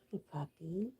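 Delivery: soft whisper to a pet; whispered hello to a dog; whisper to the puppy. Real, not acted. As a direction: hush it for the puppy. Talking to her pet.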